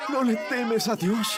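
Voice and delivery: slow, drawn-out question at normal pitch; laboured question. Acted. Thief addressing the other thief, slow question. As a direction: draw the question out slowly. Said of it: "le dije a él".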